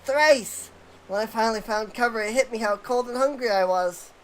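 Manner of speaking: lightly voiced nervous sidekick recounting an escape; relieved Wedge. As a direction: tell the tale breathlessly, relieved to be found. Reading Wedge's game dialogue.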